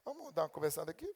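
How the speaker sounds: a hint of a tender father; gentle God. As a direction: coax the child in gently like a father. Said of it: "Deus tinha que pegar o livro e falar".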